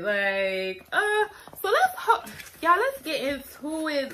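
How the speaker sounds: giggling through the words; real giggles breaking in; laughing. Real, not acted. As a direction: laugh while trying to start. Giggling while starting video.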